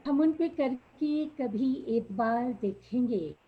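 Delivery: measured ghazal recital, phrase by phrase; poetry recitation. Acted. Poet opening her ghazal at a mushaira, reciting. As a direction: recite the verse with falling line ends.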